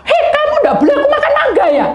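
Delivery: high, fast laughing mock outrage; mock angry. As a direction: play the man's outrage half laughing.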